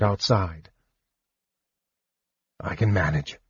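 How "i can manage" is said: big man's low voice. A narrator's reading. Caramon, big man.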